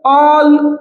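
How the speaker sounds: "all" held as one unbroken syllable; single syllable. Shown as a demonstration. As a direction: say "all" in one drawn-out piece. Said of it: "একটাই syllable". ("all" এক সিলেবলে টেনে বলা)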